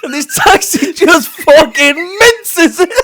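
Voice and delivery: high, slow words breaking into whispered laughter; barely voiced through helpless giggles; laughing whisper. Real, not acted. Describing the taxi to a friend, laughing whisper.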